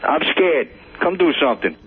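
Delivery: ordinary talk, nothing marked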